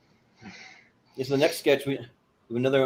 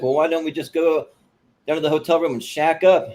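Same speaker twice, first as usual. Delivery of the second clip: Southern redneck; 5 semitones higher, 6 dB louder than usual. Retold or imitated. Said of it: "totally Southern redneck".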